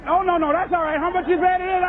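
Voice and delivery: flustered customer. Retold or imitated. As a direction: rush her off through laughter. Flustered customers hurrying her off.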